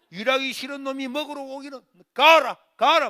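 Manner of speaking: high angry shout, driving him out; scolding mother. Retold or imitated. Mother pushing son out, angry shouting. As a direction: yell at him to go. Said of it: "야단치니까".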